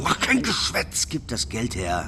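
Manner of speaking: menacing hiss. Acted. Bully threatening boy.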